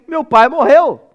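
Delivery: imitando criança aflita, alto e arrastado; criança aos prantos. Retold or imitated. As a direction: alongue as palavras num lamento alto encenado. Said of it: "Ela tá aos prantos". (imitação de choro infantil, alta e lenta)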